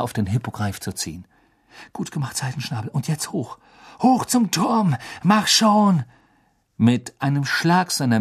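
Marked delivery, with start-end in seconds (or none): 1.9-6.0 rising into loud urging. A narrator's reading. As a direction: spur the beast upward. Urging the hippogriff on.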